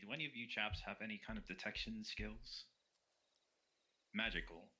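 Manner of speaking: whispering under breath. Asking fellow party members about detection skills: whispering under breath. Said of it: "I'm gonna just kinda whisper under my voice".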